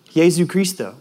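Jesu Cristo said the Spanish way, YAY-zoo KREE-sto; quoting the man in his own Spanish; Spanish phrase. Retold or imitated. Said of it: "the man sitting in the window seat says".

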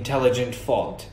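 "intelligent fault" in a native-like English accent. Shown as a demonstration. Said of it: "أتكلم بلهجة شوية الإنجليش".

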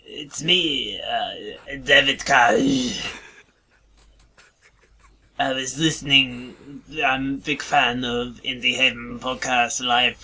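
a light mock French accent, phone caller. Prank caller on a podcast, in a light mock French accent. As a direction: play a French caller faking a radio call-in, light French accent. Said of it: "it's a French accent".

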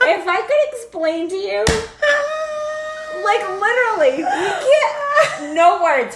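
high, laughing cry; words crack with laughter; helpless laughter. Real, not acted. Mom too hysterical to explain.

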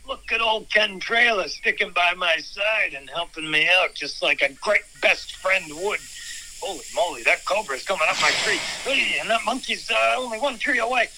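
lightly voiced narrator telling his own scene; mind movie narration. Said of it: "mind movie narration".

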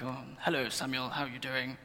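softly imitated posh English father; posh dad. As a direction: put on a mild posh accent. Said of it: "he's quite posh".

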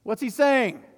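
the crowd puzzling over his words; puzzled townsfolk. Retold or imitated. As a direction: wonder aloud what he means. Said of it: "the people were figuring it out".

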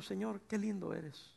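a soft, slow, loving prayer; tender prayer. Retold or imitated. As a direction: pray it gently and slowly. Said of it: "yo digo".

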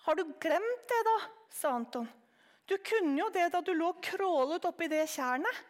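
put-on high, eager small boy's voice; a curious child piping up; little boy. Anton's child voice.

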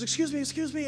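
high-pitched, urgent plea for attention; emotional woman. Retold or imitated. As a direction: imitate an upset woman calling out. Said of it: "she's real emotional".

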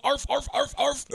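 high yapping dog barks; yappy panting puppy. Retold or imitated. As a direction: yap like a little dog. Villain barking like a dog.

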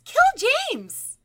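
high, loud possessed toy shout; creepy doll voice. Retold or imitated. Haunted doll shouts at the boy, high and loud. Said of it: "she hears".

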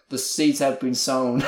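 slow, hammed-up Boston accent; imitated Boston schemer's accent; Boston accent impression. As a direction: draw it out in a mock Boston accent. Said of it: "he's got this great accent".

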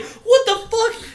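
very high, slow acted cry; horrified shock. Viewer seeing the hand grab, horrified shock. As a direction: stretch it out in comic horror.

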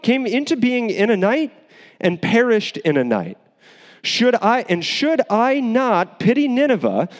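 measured, solemn Bible reading; scripture reading. Acted. Preacher reading Jonah aloud to the congregation, solemn.

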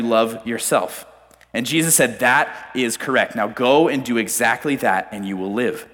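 measured Bible reading voice; scripture reading. Acted. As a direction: read the passage like a sermon text. Reads Bible passage.

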